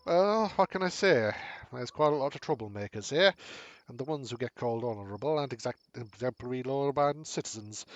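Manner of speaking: gruff-proud dwarf craftsman, lightly voiced; dwarf bragging about his people's armor. Dwarf judges the local lands.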